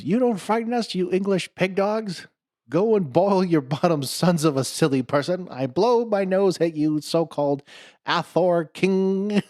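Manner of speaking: high, loud, slow mock French accent; hammed-up French taunting; French taunter. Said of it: "the Frenchman".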